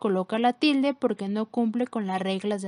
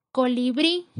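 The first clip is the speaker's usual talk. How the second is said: "Colibrí" with the force on final "brí"; stress on last syllable; 4 dB louder than usual. Shown as a demonstration. Teacher shows students the strongest syllable, "Colibrí" stressed on "brí". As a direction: land firmly on "brí" in "Colibrí". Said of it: "la sílaba con mayor fuerza es brí".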